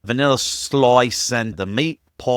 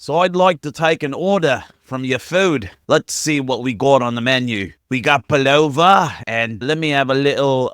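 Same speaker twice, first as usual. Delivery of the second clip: hammed-up stereotypical Australian accent; Aussie accent. American friend ordering food, teasing in a mock Australian accent. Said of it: "his version of an Aussie accent".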